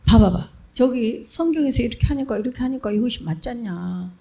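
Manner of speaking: arguing a case. Shown as a demonstration. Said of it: "뭐 이런 식으로 변증하다".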